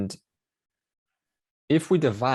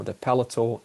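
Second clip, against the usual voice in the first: ordinary delivery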